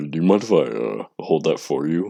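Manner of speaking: tiny goblin with a deep, low voice. Voicing a small goblin offering to hold the torch: deep goblin voice. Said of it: "three-foot-something goblin with this deep voice".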